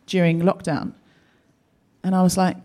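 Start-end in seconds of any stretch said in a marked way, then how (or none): 0.1-0.9 slow, drawn-out worried question; lightly voiced concerned friend, slow; a hint of sympathetic gossip, slow. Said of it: "Ellen was saying to me".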